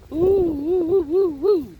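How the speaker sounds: loud, high whooping; real joyful whoops, loud and high; relieved whoops. Real, not acted. Relief after tornado passes.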